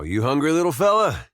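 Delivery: high, swooping question; cooing pet talk. Acted. Man asking a hungry pet, high cooing. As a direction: fuss over a small hungry creature.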